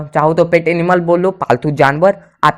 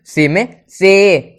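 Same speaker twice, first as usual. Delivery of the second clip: slow, clear model; much slower than usual. Shown as a demonstration. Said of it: "इसमें भी आपको एक दिख रहा होगा".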